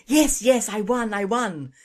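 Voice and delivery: high, loud excited squeal; high, loud giddy squeal of victory. A narrator's reading. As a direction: squeal with joy at the win.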